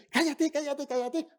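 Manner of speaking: high, loud mock hush. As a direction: shut him up impatiently. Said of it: "esos amigos que decían".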